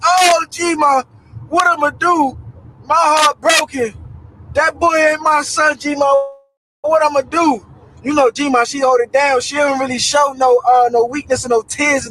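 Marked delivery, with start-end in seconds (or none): 0.0-7.6 retold tearful wail, higher pitched; tearful yelling. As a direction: act out crying out to grandma in heartbreak. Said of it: "I bust out and yell in tears".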